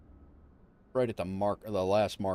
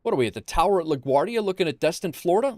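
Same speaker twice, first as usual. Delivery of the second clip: high, loud disbelief; incredulous; 7 semitones higher, 4 dB louder than usual. Real, not acted. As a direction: ask it in total disbelief. Baffled by the tower view.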